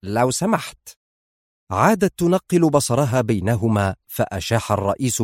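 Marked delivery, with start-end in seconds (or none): 0.0-0.9 slyly polite aside; mildly mischievous politeness. A narrator's reading. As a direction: add the courtesy with malice. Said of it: "فأضاف في خبث".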